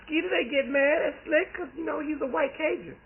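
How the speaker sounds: excited question. Retold or imitated. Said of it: "I'm like".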